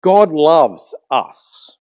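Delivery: drawn-out cliché. Retold or imitated. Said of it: "we kind of go".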